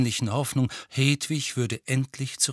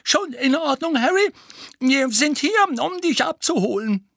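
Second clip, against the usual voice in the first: higher, louder, a little husky; slightly hoarse voice; 6 dB louder than usual. Acted. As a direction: call up the stairs with a husky voice. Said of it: "ein wenig heisere Stimme".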